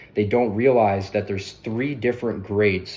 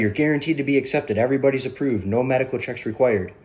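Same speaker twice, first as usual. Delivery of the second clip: lightly hammed-up ad announcer, a bit higher; mock TV ad pitch; 3 semitones higher than usual. Agent mimics the ad to a prospect, mock announcer voice. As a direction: parody a cheesy insurance commercial promise. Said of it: "I say it like this 'cause this is how they say in the ad".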